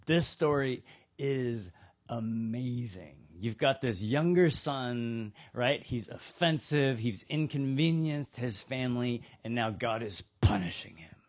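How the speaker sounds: religious leaders gloating over the sinner's fall. Retold or imitated. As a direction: savour every word like gossip. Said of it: "the religious leaders at this point are like".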